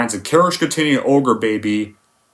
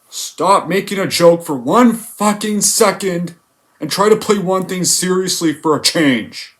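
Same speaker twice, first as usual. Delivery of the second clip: exasperated rant; 5 semitones higher than usual. Real, not acted. Ranting at the movie.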